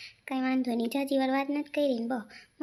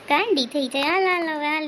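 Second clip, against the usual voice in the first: louder, insistent; exasperated call; 6 dB louder, much faster than usual. Acted. Husband loses patience calling her in, loud.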